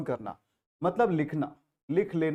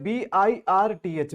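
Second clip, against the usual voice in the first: spelling out slowly; 3 dB louder, slower than usual. Shown as a demonstration. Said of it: "एग्जांपल क्या है".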